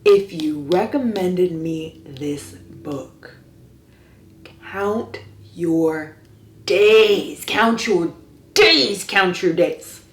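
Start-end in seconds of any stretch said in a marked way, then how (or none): 4.7-10.0 mock menacing warning. Mock threat to recommenders.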